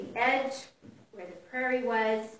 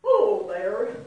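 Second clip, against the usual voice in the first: wrong character voice; 5 semitones lower, 4 dB louder than usual. Acted. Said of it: "Actually, that's the wrong voice".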